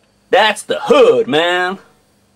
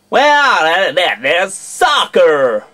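American accent; slower than usual. Shown as a demonstration. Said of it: "an entire video in an American accent".

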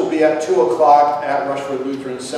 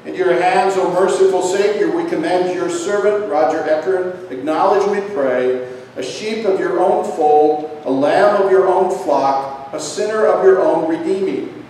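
prayer; 2 semitones higher than usual. Acted. Commendation prayer.

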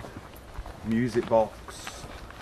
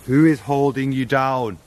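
calling out; 5 semitones higher, 6 dB louder, slower than usual. Real, not acted. Asking a ghost aloud.

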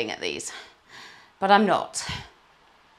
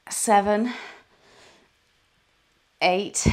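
kettlebell reps; 2 semitones higher, 7 dB louder, much slower than usual. Real, not acted. Counting reps during kettlebell workout.

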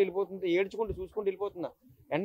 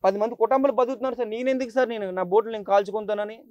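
raised, pleading with the officer, voice straining; retold desperate plea. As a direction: beg the police to believe you, chest-beating in despair. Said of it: "గుండెలు బాదుకున్నాను".

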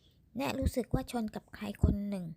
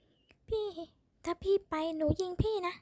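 desperate threat; 8 semitones higher, 3 dB louder, slower than usual. A narrator's reading. Woman threatening in quarrel.

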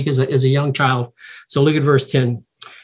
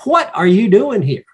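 confronting question, pitched up; pointed, higher-pitched tough-love demand; 5 semitones higher, 3 dB louder than usual. Acted. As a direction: challenge him firmly, voice high then falling. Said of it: "kinda tough love here".

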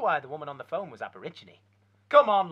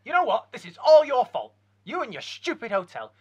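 much louder and higher, yelling in rage; furious shout; 4 semitones higher, 10 dB louder than usual. Acted. Dumped husband shouts furiously at the hotel owner. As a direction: blast him with your fury.

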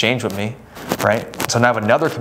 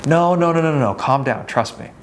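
quick higher interruption settling into reassurance; calming down; 4 semitones higher than usual. Acted. Agent heading off a buyer's cancellation, calming. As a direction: cut in, then ease down to your usual voice. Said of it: "calm them down and say".

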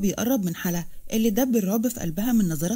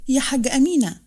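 يا حاجة أمينة called again, a bit less loud, falling on أمينة; strong voice, repeated; 3 semitones higher, 4 dB louder than usual. Acted. Farah calls Amina a second time, firm. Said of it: "وقالت بصوت قوي".

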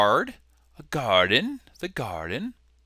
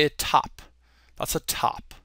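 put-on British accent; British imitation, dropping softer; 5 dB quieter than usual. Shown as a demonstration. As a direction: say it like an amateur Brit. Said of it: "give you my British accent".

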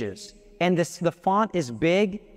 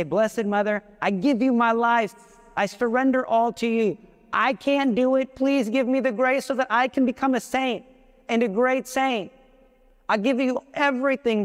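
heartfelt prayer; 5 semitones higher than usual. Acted. Acted prayer to Mary.

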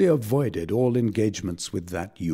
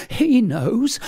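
much higher, louder, crying it out; sobbing; 13 semitones higher, 6 dB louder than usual. A narrator's reading. Blifil sobs to his tutor, crying it out high. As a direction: wail the words through tears. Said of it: "Here he burst into a flood of tears".

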